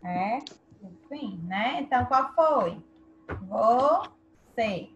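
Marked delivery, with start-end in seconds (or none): 3.5-4.9 "Você" split as vo, pause, cê; stress on last syllable. Shown as a demonstration. Teacher confirming the last syllable is tonic, "Você" split by syllable. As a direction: break "Você" in two and land on "cê". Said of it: "É a última sílaba tônica".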